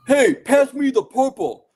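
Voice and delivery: put-on loud, high, drawn-out old-school Brooklyn; Brooklyn accent. Father-in-law at cookie decorating, hammed-up Brooklyn accent. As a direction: call it out like an old-school Brooklyn New Yorker. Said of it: "in the Brooklyn accent".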